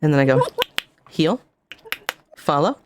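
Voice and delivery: dog commands. Shown as a demonstration. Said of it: "I do it really fast because it's".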